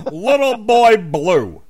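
high, slow, loud metal screech; death metal shriek. Pretend. Rhyme screamed in high metal style. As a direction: shriek it like a black metal singer. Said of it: "death metal thing".

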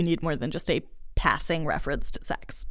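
hushed whisper; breathy aside about sex. Real, not acted.

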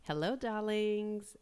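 high, slow diva greeting; campy drag queen. Acted.

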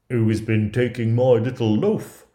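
loud put-on dwarf voice; a put-out little dwarf calling out loudly; storybook dwarf, loudly demanding to know; indignant dwarf. Third dwarf finds his loaf taken.

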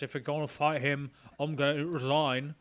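a modest impression of a loyal servant; Alfred. Alfred warning Bruce he will resign, lightly imitated. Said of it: "that was a great impression".

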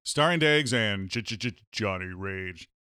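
punchy, grandiose show opening; podcast intro announcer. Acted. Host welcomes listeners to the show, grand announcer delivery. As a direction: announce it like the most powerful show ever.

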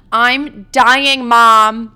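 over-the-top loud whine to mom; hammed-up wail. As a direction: belt it out like a melodramatic teen.

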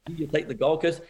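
teasing question with a laugh in it; joking jab, laughing as you ask; light laughing mock question; laughing tease. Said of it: "she starts to laugh".

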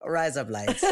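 put-on Aussie accent; mock Australian vowels. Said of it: "say in an Australian accent".

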